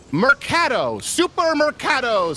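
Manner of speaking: put-on Supermercado said slowly in a Spanish accent, rolled and drawn out. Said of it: "really good Spanish accent you got going there".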